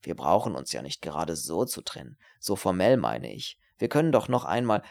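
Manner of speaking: low, swooping persuasion; insistent pleading that builds in force; wheedling student. Acted. Voices wheedling Herbert.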